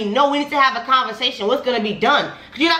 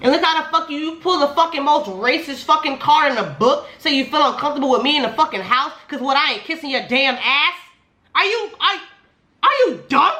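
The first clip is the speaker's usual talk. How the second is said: heated rant, pitch climbing; real worked-up challenge, pitched up; raised voice; 3 semitones higher than usual. Real, not acted. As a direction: let your voice rise in indignant disbelief. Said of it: "I have this thing where I raise my voice".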